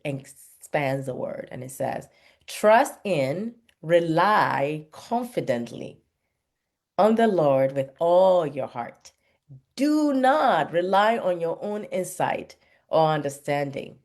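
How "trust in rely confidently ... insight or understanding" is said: slow, emphatic reading of a Bible verse; scripture reading. Acted. Reading Proverbs to encouraged parents, slow and emphatic. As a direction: read it like a sermon text, weighing each phrase.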